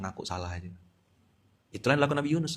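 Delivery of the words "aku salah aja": soft, low admission of guilt; quiet confession. Retold or imitated. Santri confessing to Allah, quiet and humble. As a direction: murmur it like a confession. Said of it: "minta ampun, bilang".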